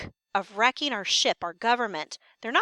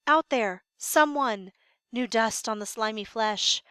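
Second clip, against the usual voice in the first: fumbling for words; 3 dB louder than usual. Acted. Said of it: "The sentry is overcome. He's fumbling for words".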